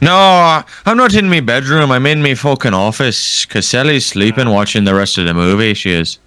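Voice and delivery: put-on light Irish accent. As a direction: lightly play an Irish bloke. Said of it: "talk in an Irish accent".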